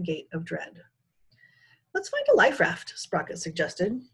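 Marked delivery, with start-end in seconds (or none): 1.9-2.9 urgent. A narrator's reading. Panicked suggestion.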